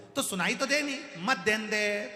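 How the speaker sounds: high, loud insistence; old man shouting to be taken along; insistent shout. Acted. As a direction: shout past the objection. Grandfather insists loudly.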